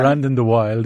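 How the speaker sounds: Brandon de Wilde in a Wexford accent. Shown as a demonstration. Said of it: "My Wexford accent".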